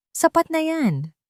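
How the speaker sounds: slow, cold and final. A narrator's reading. Master cutting off his maid, cold and slow. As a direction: shut her down coldly. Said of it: "Ang malamig na tinig ni R D".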